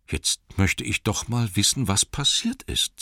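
light touch of a puzzled hobbit; lightly voiced Bilbo, wondering. Dazed hobbit talking to himself, lightly puzzled.

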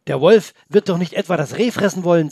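put-on a child's mild anger; angry. Boy protesting to grandpa about the wolf, mildly angry. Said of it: "sagte er zornig".

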